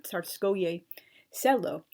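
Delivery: Tsarskoye Selo said slowly and carefully; careful Russian pronunciation. Shown as a demonstration. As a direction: spell out Tsarskoye Selo deliberately. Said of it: "false pronunciational impressions".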